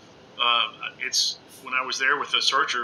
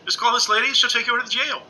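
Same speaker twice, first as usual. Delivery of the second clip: lightly voiced friend, pitched much higher; quoting her cheerful tip in a higher voice; imitating Crystal; 10 semitones higher than usual. Retelling Crystal's advice to viewers, high mock voice. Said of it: "She, you know".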